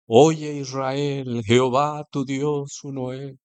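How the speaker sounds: slow, solemn mock recital; reciting the Shema. Preacher imitating Pharisees praying in the plaza, slow and solemn. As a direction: drag out a showy public prayer. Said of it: "empezaban con el Shema".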